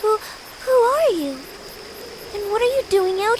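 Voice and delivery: startled. Acted. A girl startled by a stranger in the dark, asking who he is. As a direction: caught off guard, blurting who are you.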